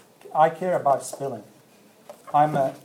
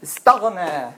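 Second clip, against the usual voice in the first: Quran recitation; faster than usual. Shown as a demonstration. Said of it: "read it all together".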